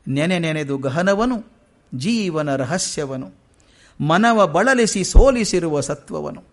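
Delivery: slow, measured reading of verse; poem recitation. Acted. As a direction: recite each line slowly, weighing every word. Recites verse 918 of the Kagga.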